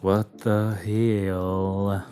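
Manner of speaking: normal talking voice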